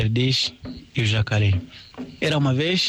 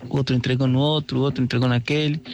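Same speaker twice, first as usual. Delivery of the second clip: ordinary delivery, nothing marked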